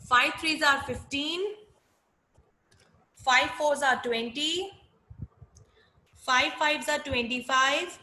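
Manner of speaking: chanted times table, each line rising; sing song rote recitation. Shown as a demonstration. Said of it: "repeat after me".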